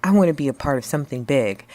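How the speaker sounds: fast, eager rush; eager applicant. Retold or imitated. Job applicant to the boss, fast and eager. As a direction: gush it out like a keen job seeker. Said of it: "really energetic guy".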